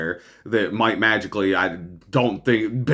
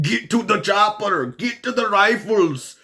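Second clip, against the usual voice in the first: higher, hammed-up movie commando shout; mock action hero; 9 semitones higher than usual. Host telling protesters to go be actors, mock action-hero cry. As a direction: play a cheesy blockbuster hero barking orders. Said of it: "cosplay as an action hero".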